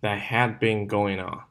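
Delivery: "that had been going on" joined up; smooth connected phrase, "had been" linked; linked reading. Shown as a demonstration. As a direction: run "going" straight into "on". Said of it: "我们是一个连读".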